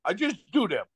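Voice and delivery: badly faked French accent; Gilbert Perreault. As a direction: repeat the teammate's answer in a hammed-up French accent. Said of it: "It's a terrible accent".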